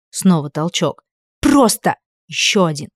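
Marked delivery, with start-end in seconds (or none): 1.4-2.0 one high loud word, pushing; furious shout with a shove. A narrator's reading. Shoves him on each word.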